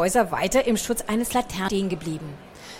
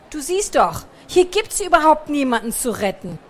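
higher, scornful scolding; contemptuous snort; 5 semitones higher, 4 dB louder than usual. A narrator's reading. Pikandu blaming Bertram for the pointless outing, contemptuous. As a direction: throw it back with scorn. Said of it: "er schnaubte verächtlich".

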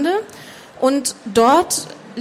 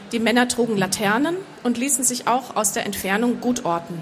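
measured audiobook narration; story narration; 3 dB quieter than usual. A narrator's reading. Author reading her fantasy novel to an audience, measured narration. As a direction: read the story out evenly and composed.

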